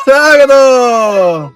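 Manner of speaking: very slow, loud, sing-song "സ്വാഗതം"; ആഹ്ലാദത്തോടെ നീട്ടിയ സ്വാഗതം; stretched-out welcome. Acted. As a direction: draw the welcome out like a show host greeting viewers. Mother echoes child's welcome.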